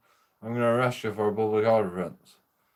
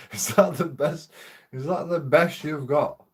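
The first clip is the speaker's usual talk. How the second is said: higher, mocking dare; taunting challenge; 4 semitones higher than usual. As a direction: goad him like a heckler. Taunting police in retold quarrel.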